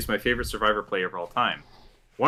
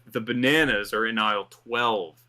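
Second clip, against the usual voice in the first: slow, overdramatic grocery announcement; mock dramatic Chris; slower than usual. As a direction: read it like a grave confession, slowly. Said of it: "coming out of the mouth of Chris Dougherty".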